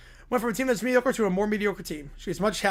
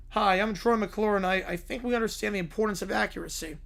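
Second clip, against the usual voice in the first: Troy McClure. Retold or imitated. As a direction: play the cheesy TV host, slowed right down.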